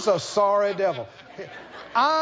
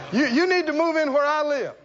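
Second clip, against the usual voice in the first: eager invitation; 5 semitones higher than usual. Acted. Believer answers back, acted.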